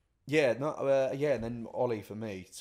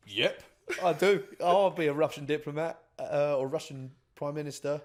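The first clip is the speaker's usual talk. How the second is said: mock Russian diplomat; 6 semitones higher, 9 dB louder than usual.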